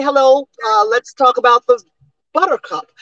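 BUTTERCUP with every T carefully sounded; over-enunciated. Acted. Patient arguing with therapist that people don't talk so, over-enunciated BUTTERCUP. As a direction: enunciate "buttercup" stiffly, like nobody really talks. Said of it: "people don't speak like that".

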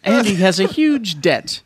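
lightly put-on British newsreader accent; BBC presenter. Host retelling the show's story, mock BBC British presenter. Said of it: "as a B B C presenter then".

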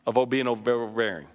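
breathy pulpit whisper; hushed, pointed whisper to the congregation. Acted. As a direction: let the question fall to a whisper. Preacher drops to a whisper.

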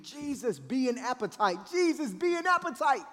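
strained, high muffled scream; internal screaming. Acted. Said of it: "internally I'm screaming".

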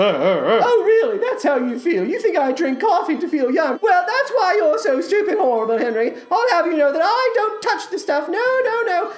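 high, haughty, offended diva; Marguerite. Acted. Marguerite insults Henry and summons Reynardo, haughty outrage. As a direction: scold in a swooping, affronted voice.

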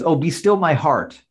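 slow sarcastic swoon; mock delight, slow and dry. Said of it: "Also sarcastic".

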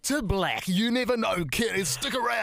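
lightly hammed-up show host; mock cliffhanger teaser. Host teasing listeners about a trivial change, mock-dramatic.

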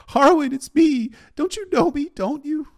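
high, loud, desperate pleading; shouted plea. A narrator's reading. Arya begging Harwin to know her, shouting. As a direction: cry out to be recognized. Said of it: "she shouted".

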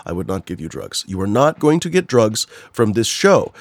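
exasperated, hammering each refusal home; angry, emphatic. Real, not acted. Host warning anyone reporting the show for drug selling, angry. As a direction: insist emphatically, slowing down on the key denials. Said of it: "forgive me for being angry".

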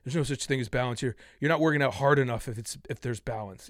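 a hint of a smug fitness bro; mocking fitness people. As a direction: parrot the gym crowd dismissively. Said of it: "the number of fitness people go".

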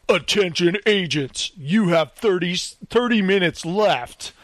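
slow, formal PA announcement; mock intercom announcer, drawn out. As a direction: read it like a cold loudspeaker voice. Loudspeaker voice in escape room.

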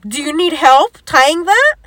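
lightly mocking offer of help, rising at the end. He offers help with a bag, mocking. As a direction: imitate someone making fun, lilting upward. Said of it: "kinda making fun of me".

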